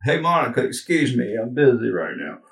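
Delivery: lightly voiced Southern-drawl politician; a loose, folksy presidential impression; a hint of Clinton's easy drawl; Bill Clinton voice as Obama. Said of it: "that's my Bill Clinton voice".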